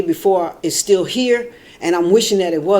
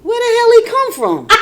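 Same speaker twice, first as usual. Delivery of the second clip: much higher, half-laughing alarm; startled shock. Retold or imitated. Woman seeing a dog appear, high startled laugh. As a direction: pitch it up in sudden surprise. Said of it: "I really said".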